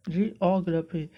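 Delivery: जियोग्राफी as one word, jee-aw-gruh-fee; careful teacher's जियोग्राफी; pronunciation model. Shown as a demonstration. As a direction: blend जियोग्राफी with a short "gruh" for ग्रा. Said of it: "इसका sound कुछ इस प्रकार से भी".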